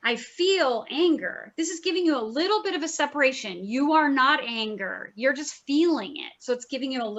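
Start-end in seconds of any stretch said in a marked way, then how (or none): 0.0-1.5 slow repeated affirmation. Shown as a demonstration. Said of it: "four or five times you're like".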